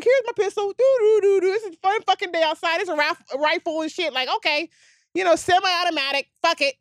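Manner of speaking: high, sing-song carefree local; mock the casual gun carrier; carefree gun-toter. Host mimicking Memphis locals strolling with rifles, high and breezy.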